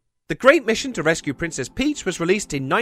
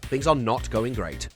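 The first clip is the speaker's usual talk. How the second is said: low, soft letdown; deflated; 6 semitones lower, 5 dB quieter than usual. Acted. Narrator puncturing his own hype for viewers, deflated. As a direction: drop right down in pitch and volume. Abrupt reversal after the hype.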